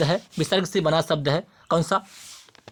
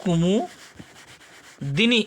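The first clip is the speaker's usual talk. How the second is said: कुमुदिनी stretched very slowly with a rising end; slow drawn कुमुदिनी for the class; much slower than usual. Shown as a demonstration. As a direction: draw कुमुदिनी out syllable by syllable. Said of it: "क्या होता है?".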